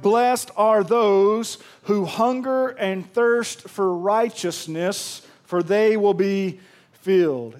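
slow, weighty scripture reading. Acted. Preacher reading verse to the church, slow and weighty. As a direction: lay each word down slowly for the congregation.

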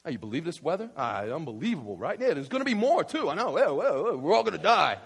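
small-talk griping that builds to loud doom; hammed-up elevator complaining; mock complaining. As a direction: grumble along, swelling into hammed-up panic. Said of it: "is complaining".

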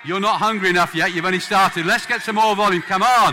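loud, high shout over a crowd; rallying shout. Real, not acted. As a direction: egg the crowd on at full volume. Shouting over the wailing congregation.

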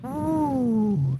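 mock whoop. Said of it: "be like".

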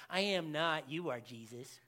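low, soft mock playground retort; childish comeback. Forty-year-old children arguing back at Jesus, childish and muted. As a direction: mutter it like a petty, overgrown child. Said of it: "Forty-year-old children".

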